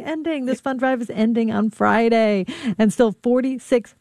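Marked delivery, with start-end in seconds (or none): 0.0-0.4 P=A; soft echo. Pretend. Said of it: "Here's a fifth word".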